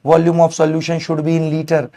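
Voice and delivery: each word spaced out; very slow dictation. Shown as a demonstration. Teacher dictating the unit rule to students, very slow. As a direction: spell it out slowly for note-taking.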